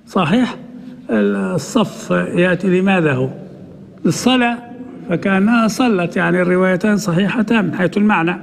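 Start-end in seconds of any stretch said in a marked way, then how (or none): none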